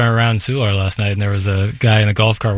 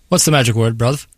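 bad New Zealand accent, lightly done; hint of a Kiwi accent; 2 semitones higher than usual. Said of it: "bad New Zealand accent on my part".

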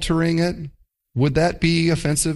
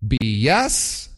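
scripture quote; 2 semitones lower, slower than usual. Retold or imitated. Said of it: "He says this".

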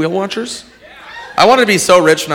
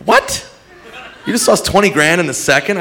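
incredulous yell; 4 semitones higher than usual. Retold or imitated. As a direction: yell it in disbelief. Shouting at the calm contestant.

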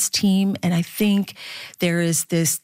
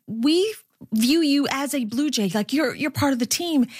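quoting kind fans; 7 semitones higher than usual. Retold or imitated. Kind fans quoted, high and far.

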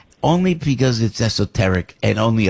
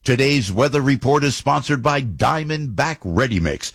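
steady ad read over music; radio sponsor announcement. Acted. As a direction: read the sponsor spot cleanly.

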